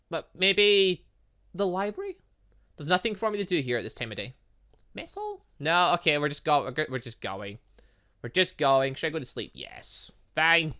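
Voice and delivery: normal talking voice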